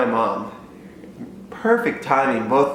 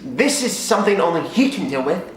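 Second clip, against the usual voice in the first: calm mom; 6 semitones higher than usual. Retold or imitated. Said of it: "she's like".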